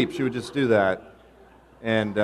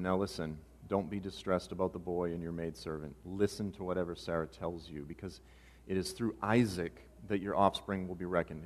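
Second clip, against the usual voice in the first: gentle reassurance; 2 semitones lower, 8 dB quieter than usual. Acted. God reassuring distressed Abraham, acted.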